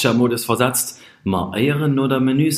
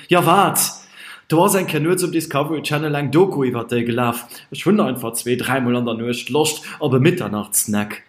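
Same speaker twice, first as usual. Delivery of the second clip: defensive; 4 semitones higher, faster than usual. Acted. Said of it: "verteidigt sich den dicken Rehm".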